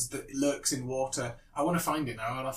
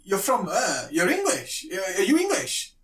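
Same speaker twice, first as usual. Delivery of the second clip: put-on strong South African accent, raised pitch; chatty tourist with thick South African accent; 4 semitones higher, 3 dB louder than usual. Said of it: "in a very, very South African accent".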